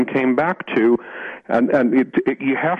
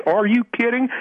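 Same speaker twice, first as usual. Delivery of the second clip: retold disbelief; 12 semitones higher than usual. Woman answering a request for a library card, quoted incredulity. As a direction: imitate her incredulous, high-pitched reply.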